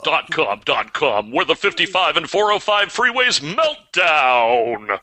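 lightly voiced DJ echo, drawn-out finish; mock radio station ident, stretching the ending; drive-time DJ. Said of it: "Drive Time D J".

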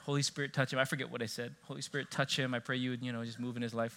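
understated, softened retold prayer; quick simple prayer. Coach praying for an injured player, quick simple prayer. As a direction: pray it simply and a little under your voice. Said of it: "just said a quick, simple prayer".

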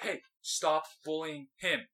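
drawn-out, half-strength imitated yell; retold yell. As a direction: imitate a man calling out a scolding. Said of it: "yells at me again".

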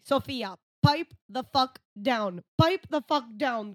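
mock yell at herself. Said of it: "empecé así a gritar".

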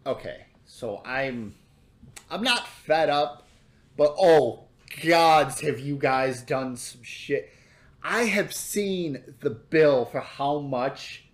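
slow, drawn-out exasperated rant; exasperated monkey. Acted. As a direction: lay out the party's excess wearily. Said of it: "and goes".

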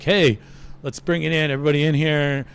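high, loud team huddle rallying cry; rally the team like a captain; halftime pep speech. Retold or imitated. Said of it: "they're like".

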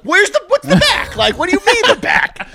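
high, laughing panicked question. Retold or imitated. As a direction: squeak it out through laughter. Panicked high retold reaction, laughing.

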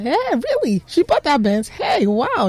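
high, gasping mock excitement; eager gossip. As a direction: play the thrilled gossip partner, hammed up. Eager listener reacting to gossip.

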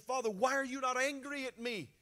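retold plea. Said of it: "And I said".

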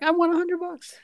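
high, loud burst of glee; excited announcement. Retold or imitated. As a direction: blurt out the win like you can't believe it. Announcing scratch-off win.

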